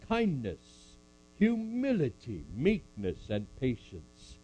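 measured solemn Bible reading; scripture reading. Acted. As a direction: read it like a sermon text. Reads scripture aloud to congregation.

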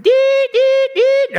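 high, loud mechanical beeping; salesman alarm beep. Retold or imitated. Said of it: "My salesman meter went".

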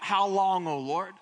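loud, pleading lament, not full force; David crying out to the Lord in a cave, pleading loudly; mild cry out to God. Acted. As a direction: call out to God in anguish, held back. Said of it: "David cried out".

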